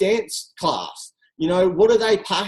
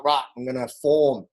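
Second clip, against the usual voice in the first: low, quiet, mechanical recitation of the formula; robot voice; 6 semitones lower, 4 dB quieter than usual. Retold or imitated. Walking into the mall in her head, lightly robotic. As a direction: sound like a scripted sales robot. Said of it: "I'm like Juice Plus robot".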